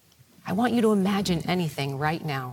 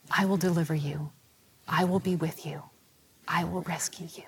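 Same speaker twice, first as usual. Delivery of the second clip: gentle reassurance; 2 semitones lower, 3 dB quieter, faster than usual. Retold or imitated. Jesus speaks to the burdened from the cross, quiet reassurance. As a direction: reassure them quietly, with pauses between promises.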